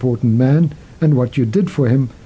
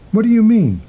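puzzled question; 8 semitones higher than usual. A narrator's reading. King puzzled by hermit's answer.

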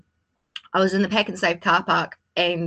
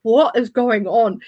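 bewildered; 2 semitones higher, 4 dB louder, slower than usual. Retold or imitated. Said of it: "I'm like".

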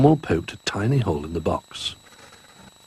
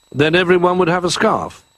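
put-on higher, small young bear voice; a lightly raised cub's voice; Little Bear voice; 11 semitones higher, 4 dB louder than usual.

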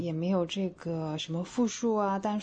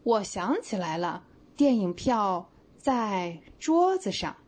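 slow demo read; slower than usual. Shown as a demonstration. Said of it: "小白说".

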